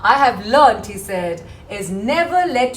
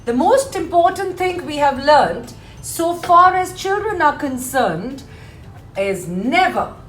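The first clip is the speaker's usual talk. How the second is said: poem recitation. Acted. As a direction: declaim the verse clearly, leaning on key words. Reads the poem aloud to class.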